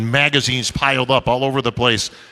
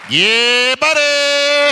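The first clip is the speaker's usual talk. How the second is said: catchphrase shout; 11 semitones higher, much slower than usual. Retold or imitated. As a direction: belt out the famous catchphrase. Shouting Ronnie Coleman's catchphrase.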